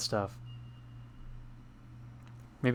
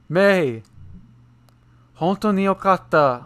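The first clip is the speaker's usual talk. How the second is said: joyful, raised voice; excited; 8 semitones higher, 6 dB louder, slower than usual. Acted. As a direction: cry out her name with relief. Reading a happy reunion line.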